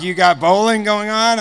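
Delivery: amused surprise. Retold or imitated.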